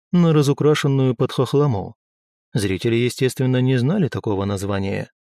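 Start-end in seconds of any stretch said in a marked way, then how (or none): none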